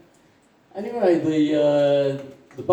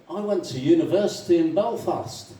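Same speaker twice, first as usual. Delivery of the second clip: slightly raised, chatty announcement; lightly voiced Irishman; 4 semitones higher than usual. Irishman telling a fellow drinker his past, lightly acted. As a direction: offer it as fresh news. First Irishman states, joke.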